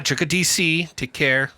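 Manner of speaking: high, loud, put-on outro voice; sign-off catchphrase voice. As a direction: ham up the outro slogan.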